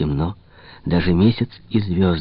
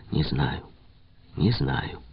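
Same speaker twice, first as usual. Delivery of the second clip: a soft, dropping не знаю, не знаю; quietly; 3 semitones lower, 8 dB quieter, slower than usual. A narrator's reading. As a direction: say не знаю, не знаю under the breath. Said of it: "тихо сказал он". (тихо, почти про себя)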